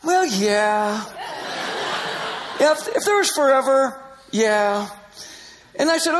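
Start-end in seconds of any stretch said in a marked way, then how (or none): 0.0-4.9 soft. Retold or imitated. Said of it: "she got all so, sort of soft".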